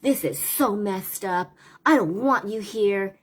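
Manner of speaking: a hint of a furious boy refusing tutoring; explosive kid. Tutored boy to the teacher, mild mock outburst. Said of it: "His mood went from super explosive".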